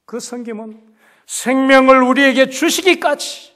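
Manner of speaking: ordinary delivery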